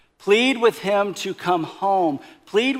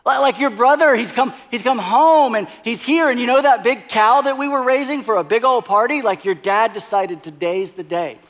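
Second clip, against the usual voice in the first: excited servant; 3 semitones higher, 3 dB louder than usual. Acted. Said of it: "with so much excitement".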